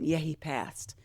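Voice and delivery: quiet, sorrowful confirmation; soft sad confirmation. Retold or imitated. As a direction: say it softly, heavy with grief. Mother repeats the news softly.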